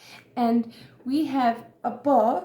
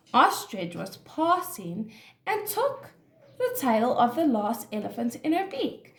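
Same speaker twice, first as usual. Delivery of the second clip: measured, expressive storybook narration; story reading to children; 2 semitones higher, 3 dB louder than usual. A narrator's reading. Teacher reads an animal story to children, expressive storytelling. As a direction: read it clearly for young listeners.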